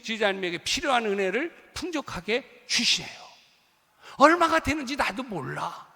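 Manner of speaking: loud, high, ringing pulpit voice; fervent sermon climax, loud and high; full-force preaching. Acted. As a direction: preach it out to the whole congregation.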